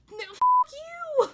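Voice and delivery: high, loud, slow comeback; indignant retort. Pretend. Firing back at a rude catcaller, loud and indignant. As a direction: snap it back at him, outraged.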